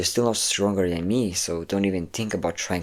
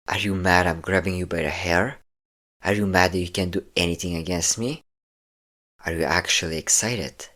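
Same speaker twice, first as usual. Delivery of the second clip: menacing captor. Acted. Captor taunts the prisoner, menacing and controlling. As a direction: toy with the captive, cold and in command.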